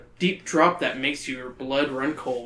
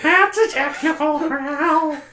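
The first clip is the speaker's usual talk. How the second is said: deadpan ref call; 12 semitones higher, 4 dB louder, slower than usual. Acted. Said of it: "Brad stares".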